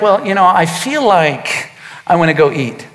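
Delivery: a hint of a mock mopey voice; mocking feelings talk. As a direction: imitate a guy who talks about his feelings. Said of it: "how many people talk like this".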